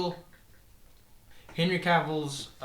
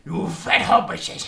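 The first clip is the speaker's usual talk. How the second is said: Gollum voice; 4 dB louder, much slower than usual. Retold or imitated. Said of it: "It's like Gollum".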